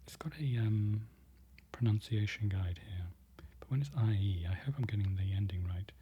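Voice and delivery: hushed ASMR aside; ASMR whisper. Acted. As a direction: whisper gently as if beside the listener. ASMR whisper between Polish practice.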